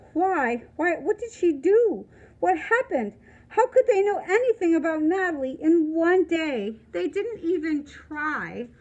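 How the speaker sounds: loud tearful questions; upset crying. Acted. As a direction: cry out the questions. Upset boy, crying heard.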